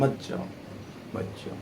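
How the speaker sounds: very faint pretend begging, dying away; mock feeble plea. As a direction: plead as if your strength is gone. Acts friction's last, failing plea.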